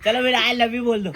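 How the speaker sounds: giggling through a playful dare; laughing tease. Real, not acted. Friend dares her, laughing as he says it.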